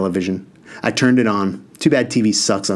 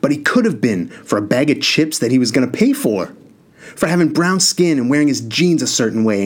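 outburst; 4 semitones higher than usual. Acted. Brother's outburst against dad.

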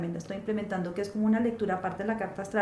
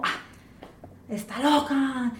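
drawn-out, dismissive scold, louder at the end; mock scolding; 2 semitones higher, 4 dB louder, slower than usual. Teachers scolding a restless girl, a mock dismissive scold. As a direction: brush off an annoying kid. Adults dismissing her as a child.

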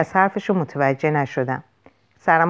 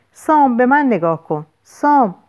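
high, louder desperate call; urgent pleading; 6 semitones higher, 4 dB louder than usual. A narrator's reading. Lou calling unresponsive Sam to look, urgent pleading. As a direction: call him back, pitch raised.

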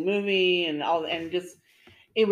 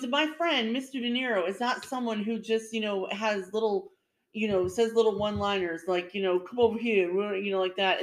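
raised pitch, earnest explaining; a lightly voiced Joe Pesci correcting them; Joe Pesci impression; 3 semitones higher than usual. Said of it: "then he goes".

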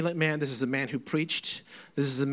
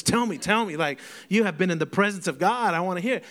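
eager pleading; 4 semitones higher, 4 dB louder than usual. Retold or imitated. Retold eager plea for stories.

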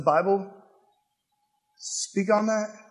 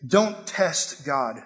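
very slow, lower and softer; calm rebuke; 5 semitones lower, 4 dB quieter, much slower than usual. Retold or imitated. Jesus answering Satan, slow low quiet rebuke. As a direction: lay it down slowly and firmly. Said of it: "And Jesus is saying".

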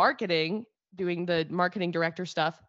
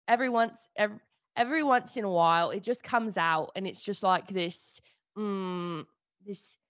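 lightly put-on British accent; slipping into a casual English accent; Russell Brand. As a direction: ease into a British accent, feeling for it. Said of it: "the accent is on point".

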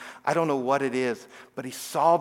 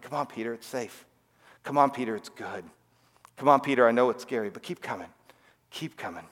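soft, quiet urging to keep coming; gentle coaxing; 2 semitones lower, 3 dB quieter than usual. Retold or imitated. Jesus gently coaxing Peter across the water, soft and quiet. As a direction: coax him across the water, softly.

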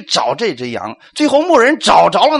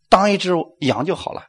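ordinary talk, nothing marked

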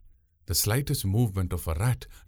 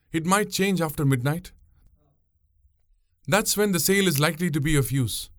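put-on much higher young woman's voice, matter-of-fact; explaining; 7 semitones higher than usual. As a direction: set him straight about the wind. Pungureli explains the sail.

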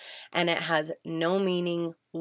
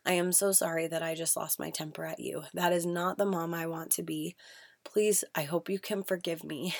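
sincere apology; 4 dB quieter than usual. Shown as a demonstration. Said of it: "explain how it made you feel".

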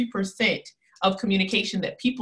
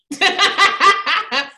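laugh; 9 semitones higher, 8 dB louder than usual. Real, not acted. Laughs between demos.

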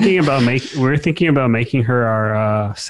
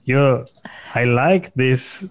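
slow, halting try at a Vietnamese accent; half-hearted Vietnamese accent, soon abandoned; attempted Vietnamese accent; much slower than usual. Shown as a demonstration. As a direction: feel your way slowly into a Vietnamese accent. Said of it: "I'll start with the Vietnamese accent".

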